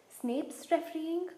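high, slow, shocked "refereeing?" rising; spluttering in disbelief. Acted. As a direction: splutter it out, stunned. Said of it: "he spluttered through a mouthful of mud".

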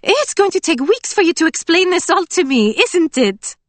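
delighted and teasing; Emily's voice. A narrator's reading. Emily teasing Scarlet about the story, excited.

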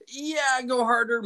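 high, strained mock agreement; in tremendous pain. Client telling the massage woman to continue, mock-pained squeak. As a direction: act out squeezing words through pain. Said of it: "in tremendous pain".

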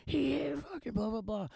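high-pitched mocking crybaby whine; mock whiny crybaby. Guy retelling how the crying kid complained, mock whiny. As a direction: mimic him bitching in a silly high voice. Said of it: "dude was crying, bitching, whatever".

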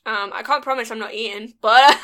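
talking through a mouthful; words round a bite of food; mouth full. Real, not acted. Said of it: "She says with a mouthful of food".

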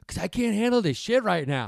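high, loud, laughing freak-out; laughing panic. Retold or imitated. Tripping friend begs Megan to take over, laughing and loud. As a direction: lose it through laughter.

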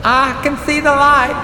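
high, loud excited filly voice; little sister spotting daylight from the well; almost squealing. A narrator's reading. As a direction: nearly squeal it with joy. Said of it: "Apple Bloom almost squealed".

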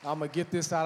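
blocked nose from the flu; stuffy, sick nasal voice. Real, not acted. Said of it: "I know I sound a little nasally".

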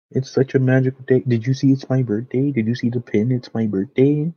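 high mock Disney-adult chirp; cheery voice. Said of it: "come with that cheery voice".

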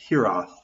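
Hiraeth said slowly as a Welsh word, half whispered; Welsh word said carefully. Shown as a demonstration. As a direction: try out the Welsh word Hiraeth, unsure and breathy. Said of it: "close approximation to how you say the word".

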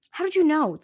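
surprised. A narrator's reading. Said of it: "Sticky's eyes widened".

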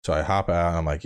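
ordinary talk, nothing marked

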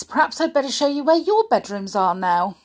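quick, cheery and breezy; bright voice. Acted. Sooty chirps quickly to the newcomers about bedrooms. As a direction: rush on brightly to hide the dog. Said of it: "began Sooty in a bright voice".

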